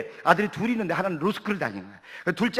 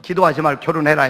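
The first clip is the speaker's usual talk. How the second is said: mock scolding; 5 semitones lower, 6 dB louder than usual. Mock scolding of praying woman.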